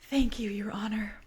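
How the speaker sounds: soft unvoiced whisper of thanks. Drama queen whispering thanks to the judge. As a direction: breathe it like a teary whisper. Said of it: "dabs her eyes and whispers".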